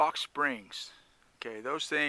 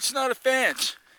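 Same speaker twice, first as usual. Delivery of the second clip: put-on very high, drawn-out, shouted yell; 11 semitones higher, 5 dB louder than usual. Retelling a reply yelled back at a neighbor: retelling own yell. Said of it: "I yelled back at him".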